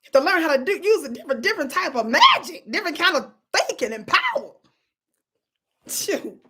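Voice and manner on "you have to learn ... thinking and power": louder, higher, fired up about her power; rising to a preach on different power. Real, not acted. Vlogger to viewers, excitedly preaching about her power.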